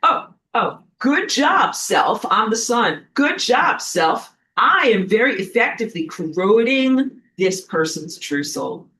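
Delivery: lightly voiced smug sun; mock smug sun. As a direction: gloat like a petty cosmic villain. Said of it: "it says stuff like this".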